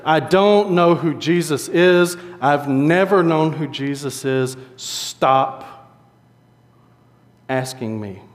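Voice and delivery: slow, emphatic retold anger; angry denial. Peter denies Jesus to his accusers, in controlled anger. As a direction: deny it word by word with restrained anger. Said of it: "Peter got so angry that he cursed".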